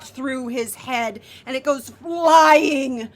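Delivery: dramatic kill description, key words drawn out; game master narration. Acted. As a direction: relish the blow, stretching the action words.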